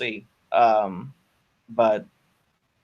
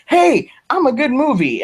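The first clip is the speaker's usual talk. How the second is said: a high, cheeky voice for the movie as it boasts; movie talking; 12 semitones higher, 3 dB louder than usual. Pretend. Podcast host voicing a surprise hit film that boasts to its audience, high and cheeky. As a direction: play the movie bragging about itself, pitched up.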